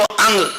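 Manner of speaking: अंग closed on a nasal ng; अंग said as a sample sound with ng stroke; nasal syllable demo. Shown as a demonstration. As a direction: demonstrate अंग, landing on the ng. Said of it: "अंग बोलो".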